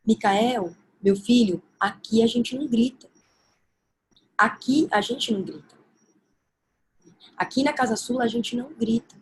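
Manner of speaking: calm correction. Shown as a demonstration. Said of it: "é assim".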